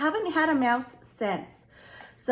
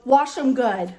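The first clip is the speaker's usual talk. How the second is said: loud retold order; bossy command; 5 dB louder than usual. Wife ordering husband to wash hands, acted bossy command. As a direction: insist on it firmly, as acted out.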